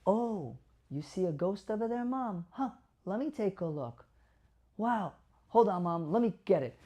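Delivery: gentle, calming caregiver going along with it; gentle validating tone. Shown as a demonstration. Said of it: "I'm gonna use something called validation therapy".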